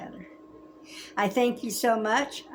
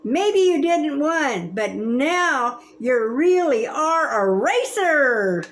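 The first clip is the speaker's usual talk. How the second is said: yelling; 4 semitones higher, slower than usual. Retold or imitated. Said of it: "I hear Bob yelling".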